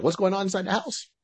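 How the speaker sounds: put-on high, quick kid question; curious boy. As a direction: call it in like a puzzled little boy. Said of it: "He's like".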